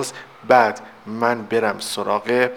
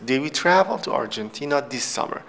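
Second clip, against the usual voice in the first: slow model reading; slower than usual. Shown as a demonstration. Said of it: "teacher rereads full example sentence".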